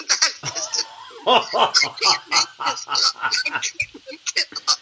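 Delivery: laughing through the words; breathy laughing disbelief. Real, not acted. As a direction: giggle as you insist it's true. Laughing while insisting it's true.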